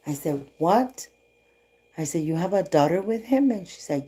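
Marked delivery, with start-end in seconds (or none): 0.6-1.1 higher-pitched, mildly shocked "what"; retold surprise, pitch rising; shocked disbelief. Retelling her shocked reply. 2.2-3.5 higher, rising incredulous question; re-enacted surprise; retold disbelief. Retelling her disbelieving question.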